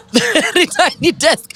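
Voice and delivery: put-on high, slow, laughing South African accent. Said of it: "What do you say in your South African accent?".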